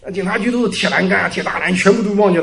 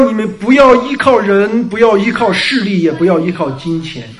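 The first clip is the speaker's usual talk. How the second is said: fervent preaching. Acted. Preacher urging the congregation not to rely on people, forcefully. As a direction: press the point home to the flock.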